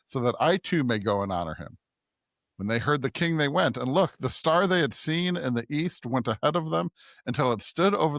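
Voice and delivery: measured, evenly projected Bible reading; scripture reading. A narrator's reading. Podcast host reads the Magi story to listeners, scripture reading. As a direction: read the passage aloud clearly, phrase by phrase.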